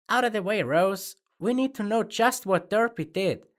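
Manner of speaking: loud, high furious demand; angry shout. A narrator's reading. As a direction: get right in their face and yell. Rainbow in narrator's face.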